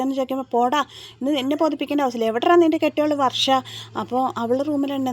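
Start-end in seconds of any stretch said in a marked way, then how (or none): 0.5-3.5 retold angry retort. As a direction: snap back like an angry brother-in-law. Sachi storms in, quarrel.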